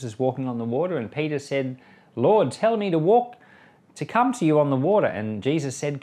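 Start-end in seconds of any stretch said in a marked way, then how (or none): 2.1-5.1 eager plea. Retold or imitated. Peter asks Jesus.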